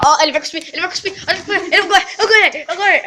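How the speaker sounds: high, laughing gloat. Real, not acted. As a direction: crow about winning, laughing. Gloating laughing as friend spits.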